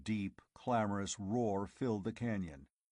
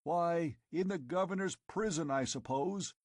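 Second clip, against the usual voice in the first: higher, offhand reply; a hint of Conan answering; 7 semitones higher than usual. Conan answering the tribesmen, offhand. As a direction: answer with a shrug in the voice. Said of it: "he answered".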